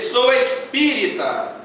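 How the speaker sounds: slow, proud declaration; slow and proudly announcing one's faith; proud and full-mouthed. Retold or imitated. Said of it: "Enche a boca pra dizer".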